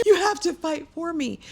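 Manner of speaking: high, pleading plea to be fought for; a wife pleading with her husband to fight for her, high; pleading demand. Retold or imitated. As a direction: push the plea up high and urgent. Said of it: "She was".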